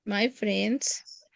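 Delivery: very slow, stretched prompt; slow cueing voice for the class; drawn-out prompt. Shown as a demonstration. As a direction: stretch it so students fill in. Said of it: "teacher prompts slowly".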